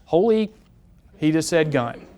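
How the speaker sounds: alarmed realization. Retold or imitated. Bystander hearing gun a third time, sudden alarm. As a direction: it finally sinks in, sharp alarm. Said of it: "Third time".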